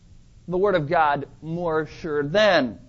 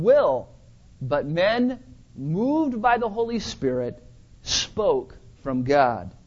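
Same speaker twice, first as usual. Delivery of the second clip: scripture reading. Acted. Pastor reading Second Peter aloud to the congregation, measured. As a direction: read the passage with weight, pausing. Preacher reads the scripture passage.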